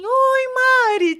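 high-pitched, sing-out mock greeting; calm phone greeting. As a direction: imitate an unruffled hello on the phone. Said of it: "muito calma". (imitando um alô muito calmo)

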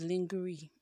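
lingerie read as it is spelt, LING-geh-ree; misread pronunciation of lingerie. Shown as a demonstration. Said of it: "Me, I used to read it as".

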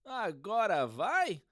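slow, doubtful question. Acted. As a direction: ask it with doubt. Same words as question.

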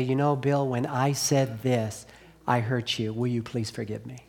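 soft, slowing, earnest plea for forgiveness; sincere apology. Acted. Preacher modelling how to apologize to a friend, softly sincere. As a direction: say it gently, as if face to face.

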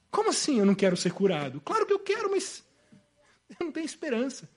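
indignant question fading into soft resignation; protest sinking into hopelessness. Acted. Paralytic admits he has no hope, protest fading to resignation. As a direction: start to protest, then give up quietly. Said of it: "A resposta desse, desse paralítico, resumindo, é".

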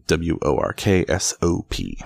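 each letter W O R K S O P named separately; spelled out. Shown as a demonstration. Reader spelling the town for listeners, letter by letter. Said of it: "a town name".

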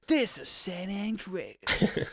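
slow, laughing letdown; deflated. Retold or imitated. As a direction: drag it out in mock disappointment. Reveal after hoping for Vice City.

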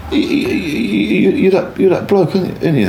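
a lad blurting it out on recognizing him; imitating a street kid.

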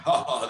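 spoken-out imitation of knowing laughter; mock old-guy laugh. Old guys reacting to a young man, mock laugh. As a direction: fake a scoffing "ha, ha, ha". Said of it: "The old guys will be like".

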